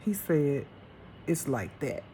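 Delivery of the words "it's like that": a hint of God's stern reply. God answering her firmly, lightly voiced stern reply. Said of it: "he said it with such stern".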